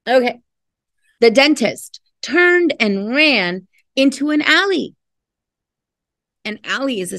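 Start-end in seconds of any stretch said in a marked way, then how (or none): 1.2-4.9 lively storybook reading voice; expressive picture-book narration; reading to children. Acted. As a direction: read it like a bedtime story. Reads picture book aloud.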